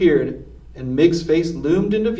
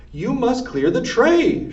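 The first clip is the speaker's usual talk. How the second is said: higher, slow, spelled-out shout; Cook shouting; 7 semitones higher, slower than usual. A narrator's reading. Cook ordering Mig to clear the tray, slow shout. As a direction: bark it slowly at her. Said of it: "shouted Cook".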